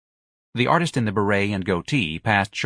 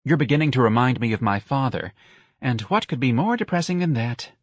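higher-voiced weary young man; sighing complaint; 4 semitones higher than usual. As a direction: lightly sigh through the complaint. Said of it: "The young man sighed".

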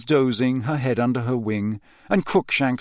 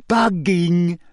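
a bright, pleased reveal; spring the word like a happy secret; mild glee from a clever girl; happily; 7 semitones higher, 5 dB louder than usual. A narrator's reading. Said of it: "said Hermione happily".

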